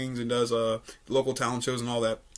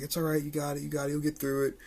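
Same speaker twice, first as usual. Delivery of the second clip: reassuring; 7 dB quieter than usual. Retold or imitated. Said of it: "she was like".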